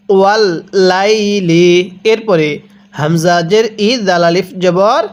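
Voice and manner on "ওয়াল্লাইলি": ওয়াল্লাইলি drawn out slowly; slow recitation. Shown as a demonstration. Teacher models the word for students, slowly. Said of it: "হ্যাঁ, কিভাবে পড়ব?".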